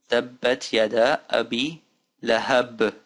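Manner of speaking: slow, careful recitation in short pieces; slow reading. Shown as a demonstration. Teacher putting the phrase together for learners, slow. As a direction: read each word out carefully. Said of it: "Let's do it slowly now".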